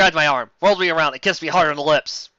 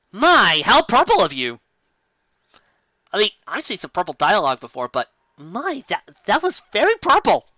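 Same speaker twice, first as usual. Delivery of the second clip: higher, theatrical mock gasp; mock scandalized; 3 semitones higher than usual. Real, not acted. Reader mocks the purple dialogue, scandalized. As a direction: clutch your pearls at the prose. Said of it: "mock-shocked critique".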